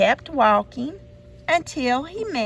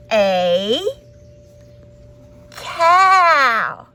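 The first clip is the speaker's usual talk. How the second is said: big reveal; 7 dB louder than usual. A narrator's reading. Story reveals the cow.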